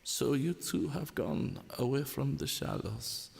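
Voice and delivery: lightly voiced pompous German poet; a hint of a grand German orator, in mock recital; a faint poetic German voice for a teasing friend. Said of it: "as the poetic German would say".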